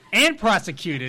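loud and distorting the mic; yelled into the mic, clipping; clipping distorted mic. Real, not acted. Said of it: "Stop yelling into the mic".

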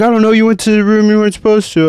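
fast, high, loud comeback; yelled retort in a heated quarrel; retold shouted argument. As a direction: imitate a worked-up bouncer. Retold bouncer arguing.

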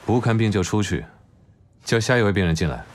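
impatient doctor ordering the next patient in; curt order. Acted. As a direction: bark him out of the room.

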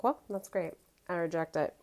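dry sassy dismissal; dismissive retort. Retold or imitated. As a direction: shut her down, deadpan. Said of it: "I've been saying that all week".

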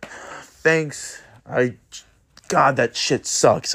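lightly voiced embarrassed klutz, dragging out the complaint; the stranger who dropped something, mildly mock-moping; grumbling stranger. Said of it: "And they're like".

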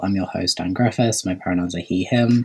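muffled earphone recording; underwater. Real, not acted. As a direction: sounds like speaking underwater. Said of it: "sound like I'm underwater".

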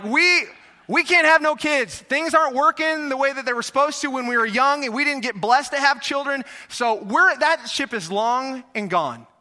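the woman shouting that the ship has sailed; loud disbelieving protest. Acted. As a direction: wave it off loudly, she's too old. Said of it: "She's going".

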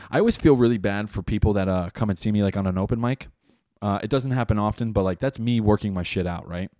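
talking while chewing gum; words round a wad of gum. Real, not acted. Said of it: "let me get rid of this gum".

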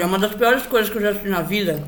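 talking while chewing; words round a bite of food; mouth full. Real, not acted. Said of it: "eu tô mastigando".

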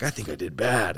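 understated, falling finish; a touch of defeat, voice dropping; mildly downbeat quote. Retold or imitated. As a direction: retell your own verdict as a small letdown. His own downbeat verdict, in contrast.

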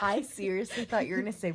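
excited. Real, not acted. Shocked comic outburst.

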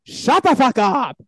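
slow, high mock Asian accent; badly faked Asian accent, drawn out; hammed-up Asian accent, stretching each word; put-on Asian accent. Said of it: "If that's an Asian accent".

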